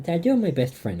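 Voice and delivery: a hint of a child's declaration; daughter's voice. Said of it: "and she goes".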